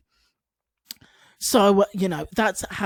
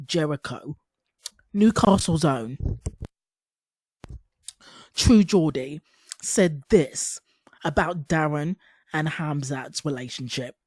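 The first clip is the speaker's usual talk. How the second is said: announcer. Acted. Hyping up True Geordie's clip.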